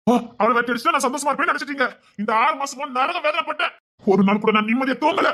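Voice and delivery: high, pained outburst; anguished accusation. Acted. Son accuses family over his wife.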